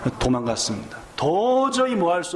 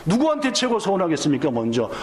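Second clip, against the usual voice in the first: quicker, pushier repeat with 누구한테 leaned on; pressing repeat. Shown as a demonstration. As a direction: press the congregation for an answer. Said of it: "아니, 다른 분들은 생각 안 하면서".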